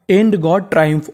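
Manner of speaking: careful slow sentence; slow model reading. Shown as a demonstration. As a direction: read very slowly, word by word. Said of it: "sentence read".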